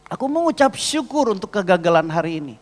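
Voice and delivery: impassioned retold prayer; emphatic prayer. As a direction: proclaim it to God with force. Retold prayer of thanks after failure.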